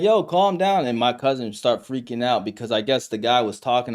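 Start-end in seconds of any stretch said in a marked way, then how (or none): 0.0-0.8 peacemaker. Retold or imitated. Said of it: "trying to be a peacemaker".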